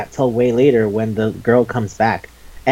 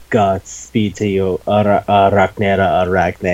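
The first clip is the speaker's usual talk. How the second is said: cheesy farewell; 4 semitones lower than usual. Retold or imitated. Hero bids spider girl farewell, cheesy. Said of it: "so cheesy and stupid".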